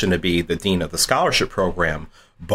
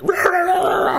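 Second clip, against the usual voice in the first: death metal imitation. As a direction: ham up the noise from the next room. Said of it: "it sounded like death metal".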